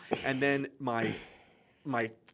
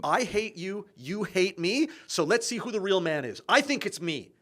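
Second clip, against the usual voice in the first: higher, insistent acted confrontation; son's challenge; 6 semitones higher than usual. Son confronting his father over hatred, challenging. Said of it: "then he says to his father".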